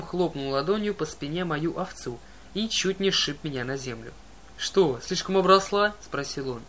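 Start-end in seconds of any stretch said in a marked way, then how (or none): 4.6-5.9 high, loud, slow monster growl; a suspicious giant checking sheep; gruff giant voice. A narrator's reading. Cyclops asks suspiciously.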